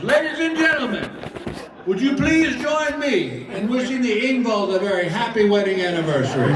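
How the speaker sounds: announcing manager. Retold or imitated. Manager announcing the anniversary to the restaurant, high showman call. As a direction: proclaim it to the whole restaurant. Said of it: "turns to the entire restaurant and goes".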